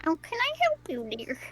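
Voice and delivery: a hint of a sweet old lady; mimicking old lady. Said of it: "see if you can mimic that".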